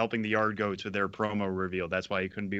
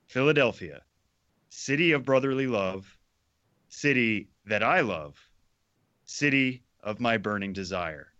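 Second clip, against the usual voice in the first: earnest, swooning recital with long pauses; fervent poem reading. Acted. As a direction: recite it like a passionate love poem. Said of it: "the appropriate level of fervor".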